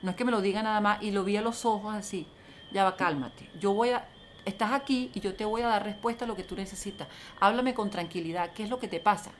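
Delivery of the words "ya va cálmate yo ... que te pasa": calm and reassuring. Shown as a demonstration. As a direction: settle a panicked person down gently. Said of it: "fíjate la diferencia".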